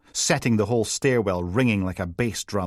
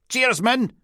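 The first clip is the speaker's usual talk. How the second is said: cheery Teuchter; 14 semitones higher, 4 dB louder than usual. A narrator's reading. Steele cheery to intercom.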